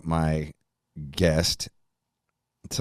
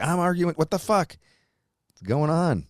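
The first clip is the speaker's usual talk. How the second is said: pitched way up in hammed-up disbelief; mock disbelief; 11 semitones higher than usual. Host retelling his weekend quarrel, mock disbelief. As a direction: play your own baffled self, high. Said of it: "I was like".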